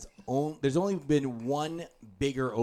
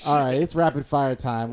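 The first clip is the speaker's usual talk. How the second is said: segment announcement; 7 dB louder than usual. Real, not acted. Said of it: "announces segment".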